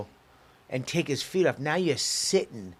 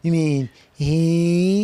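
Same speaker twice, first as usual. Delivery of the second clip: mock offended correction; 6 dB louder, much slower than usual. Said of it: "that we're at the point where so".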